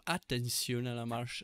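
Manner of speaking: badly faked English accent in French; slow, clumsy attempt at an English accent. Announcer in England warning passengers, badly faked English accent. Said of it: "je sais pas faire l'accent anglais".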